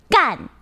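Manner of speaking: "gan" said clearly with a firm tone; 清楚地说"gan"; Mandarin word demo. Shown as a demonstration. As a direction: pronounce "gan" carefully.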